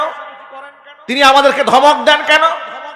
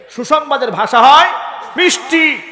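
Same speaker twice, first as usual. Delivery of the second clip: মিষ্টি lifted high and sung sweetly; 3 semitones higher than usual. Shown as a demonstration. Preacher showing the crowd how good news sounds, sweetly.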